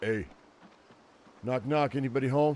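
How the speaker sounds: put-on zombie voice. Voicing what a zombie at the open door said: voicing a zombie. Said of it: "that zombie was like".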